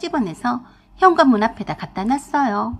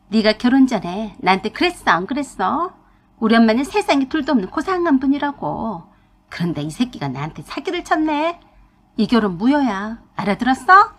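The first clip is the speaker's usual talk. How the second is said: huffing yell. Acted. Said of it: "씩씩거리며 소리를 질러댔어요".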